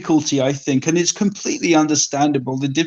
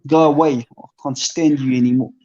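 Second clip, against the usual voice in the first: mock South African accent. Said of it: "That's, that's pretty good".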